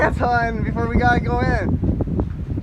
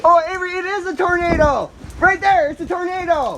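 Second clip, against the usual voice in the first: excited; 5 semitones higher than usual. Real, not acted. Dad spots tornado, calls out.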